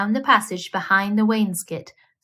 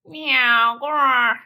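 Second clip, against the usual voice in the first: cat meow and growl; 3 semitones higher, 3 dB louder than usual. A narrator's reading. Simpkin growling at night as the tailor talks in his sleep. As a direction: make the cat's strange night noises. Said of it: "Simpkin said".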